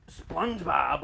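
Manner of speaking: lightly attempted bad Jamaican accent; terrible Jamaican accent. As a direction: imitate someone botching a Jamaican accent. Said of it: "that was a terrible Jamaican accent".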